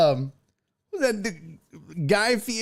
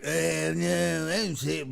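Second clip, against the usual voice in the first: mock dismissive; 3 semitones lower, 5 dB quieter, much slower than usual. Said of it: "And he was like".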